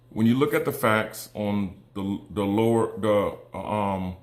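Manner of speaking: halting, stumbling over words; stuttering. Real, not acted. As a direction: trip over the words, restart. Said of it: "I'm stuttering, I'm sorry".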